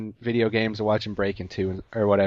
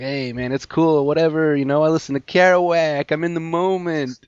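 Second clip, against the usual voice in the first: mock nonchalant slacker; 3 semitones higher than usual. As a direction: play up a pretentious, too-cool guy. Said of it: "his reaction to all this is just like".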